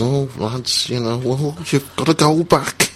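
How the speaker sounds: a hint of Scouse, falsely kind; lightly voiced Scouse fan nudging them out; mock Scouse accent. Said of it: "I'm doing a Scouse accent".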